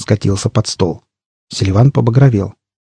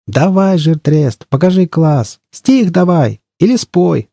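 higher-pitched, eager crowd calls; egging on; 7 semitones higher, slower than usual. A narrator's reading. Stalkers all round urge their mate to recite, eagerly. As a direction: goad him into performing. Crowd urges him to perform.

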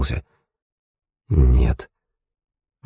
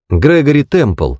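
higher, slow, deliberate recall; reciting aloud; 8 semitones higher, slower than usual. A narrator's reading. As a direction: say the name out slowly, straining to remember. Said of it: "громко произнёс Билли, напрягая память". (вслух, медленно припоминая)

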